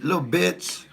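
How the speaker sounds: high-pitched imitation of a cussing mother; scolding mama. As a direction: mimic mama calling you out. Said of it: "My mama said".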